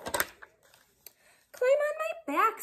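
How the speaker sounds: high, very slow coaxing fox; crafty fox luring him; sly fox voice. Acted. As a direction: draw the words out slyly. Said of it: "said the fox".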